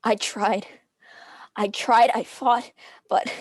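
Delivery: tearful anguish. Acted. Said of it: "dissolves into restrained, painful sobs".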